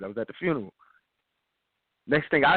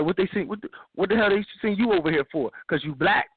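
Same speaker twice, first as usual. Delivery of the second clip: retold cussing; 3 semitones higher than usual. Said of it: "I cussed him out".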